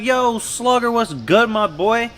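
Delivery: retold, lightly voiced happy shout-out; excited greeting. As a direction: greet him like a long-lost homie. Ben greets his childhood homie.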